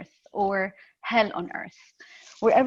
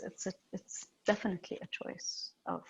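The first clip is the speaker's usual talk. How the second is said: whisper; 10 dB quieter, faster than usual. Real, not acted. Quiet earnest point.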